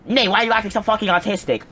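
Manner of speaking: high-pitched imitation of an exasperated friend; high mock-indignant question; mock scolding. Friend's rebuke acted in retelling.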